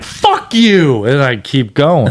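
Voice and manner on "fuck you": higher-pitched defiant retort; mock defiance. Adult answering wasps that stung him, mock defiance. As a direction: toss out a playful curse.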